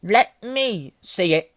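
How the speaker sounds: high, loud, very slow brat; demanding. A narrator's reading. Son insists on seeing letter, demanding loudly. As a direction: drag out each word as a loud demand. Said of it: "demanded Dudley".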